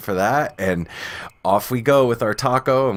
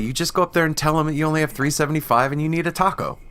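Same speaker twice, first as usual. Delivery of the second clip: retold insistence; 6 semitones higher, faster than usual. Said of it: "I'm like".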